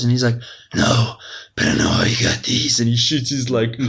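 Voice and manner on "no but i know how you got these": Batman. Retold or imitated. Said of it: "Joker's got Batman pinned down".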